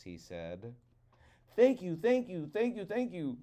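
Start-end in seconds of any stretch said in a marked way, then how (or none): 1.6-3.4 eager thanks. Acted. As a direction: gush with excited thanks. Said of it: "said Coyote".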